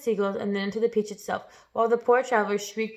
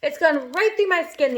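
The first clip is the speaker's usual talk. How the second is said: groaned; 6 semitones higher than usual. Acted. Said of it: "the earthworm groaned".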